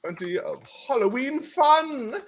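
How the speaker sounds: high, slow, showy announcer read; hyped announcer voice. Acted. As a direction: sell it like a promo. Put-on high hype voice.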